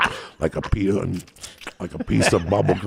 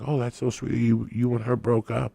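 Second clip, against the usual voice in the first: mock sympathy; 6 semitones higher than usual. He voices her sympathy.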